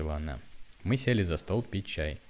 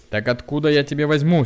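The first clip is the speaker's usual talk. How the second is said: louder, higher exasperated retort; angry reply; 7 semitones higher, 8 dB louder than usual. A narrator's reading. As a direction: throw the question back crossly. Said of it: "сердясь ответила ему тётя Любава". (сердитый ответ)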